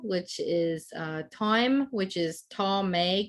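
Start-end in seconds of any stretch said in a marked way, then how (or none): 1.9-3.3 ta me, the two words run together; squished ta me. Shown as a demonstration. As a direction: squish ta me into one flowing sound. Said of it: "kind of squished together".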